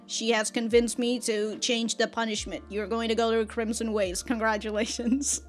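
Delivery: mildly condescending. Acted. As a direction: hand down the verdict with controlled condescension. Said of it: "a little bit more condescending".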